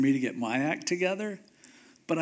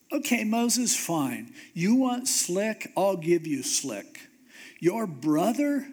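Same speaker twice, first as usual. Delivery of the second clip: sarcastic annoyed God; 2 semitones higher than usual. Acted. God angrily relents.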